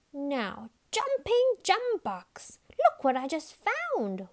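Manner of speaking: roaring. A narrator's reading. Bungle finds the dogs' note, roaring with surprise. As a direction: roar it out like a rough shearer. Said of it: "roared Bungle".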